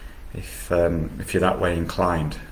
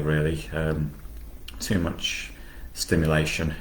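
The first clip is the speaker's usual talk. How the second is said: guided meditation; 2 semitones lower, 6 dB quieter than usual. Acted. Meditation teacher explaining closed eyes to listeners, soft guiding voice. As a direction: settle quietly into an easy, hushed explanation.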